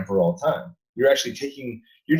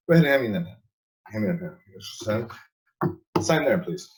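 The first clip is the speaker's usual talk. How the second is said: subtle commands. Shown as a demonstration. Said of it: "that's a".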